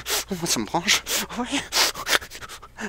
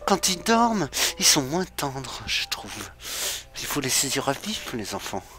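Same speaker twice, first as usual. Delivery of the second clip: creepy villain voice; 3 semitones lower, 3 dB quieter than usual. Acted. Creepy cannibal monologue in horror game.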